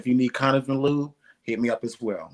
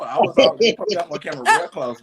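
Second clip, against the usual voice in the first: laughing; 8 semitones higher, 9 dB louder than usual. Real, not acted. Laughing start on camera.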